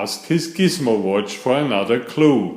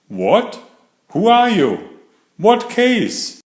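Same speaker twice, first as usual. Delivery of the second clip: much higher, surprised little squirrel voice; startled squirrel; 10 semitones higher, 4 dB louder than usual. Acted. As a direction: jump up in pitch, caught off guard.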